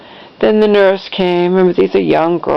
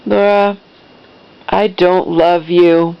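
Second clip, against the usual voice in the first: measured and icy, no raised voice; calm, cold. Retold or imitated. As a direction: imitate a mother coldly disowning her child. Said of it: "very calm, cold".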